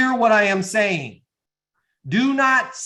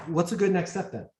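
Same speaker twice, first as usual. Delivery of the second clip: easy, unpressured question; demonstrated sales tonality; 3 dB quieter than usual. Shown as a demonstration. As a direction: ask it lightly after a pause, no push. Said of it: "Listen to my tonality".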